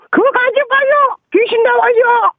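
high, shrill granny warning cry; old woman shouting. Acted. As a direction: scream a warning like a scared grandma. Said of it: "세상에 이런 일이 연출하는 게".

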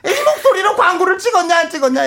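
very high, fast lecturer voice; excitable high scholar ranting; Doh-ol Kim Yong-ok impression. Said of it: "나 돌 김용옥".

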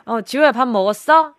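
gentler, easygoing check-in by name; friendly name call. Shown as a demonstration. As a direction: demo of kindly asking a sibling. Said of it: "이렇게 물어보던지". (동생 이름을 다정하게 부르는 시범)

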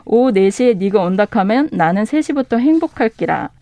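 light Gyeongsang dialect read. Shown as a demonstration. 경상도 사투리로 가볍게 낭독. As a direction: bookseller reads the short Gyeongsang line to the host, light dialect. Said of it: "짧은 버전 말씀드리면 경상도 버전은".

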